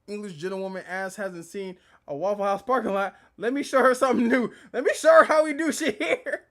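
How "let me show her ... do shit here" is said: hyped up. Real, not acted. Hyped threat at witness.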